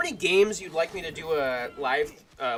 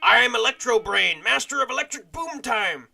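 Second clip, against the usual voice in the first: villain voice; 6 semitones higher, 8 dB louder than usual. Acted. Voicing Electro Brain.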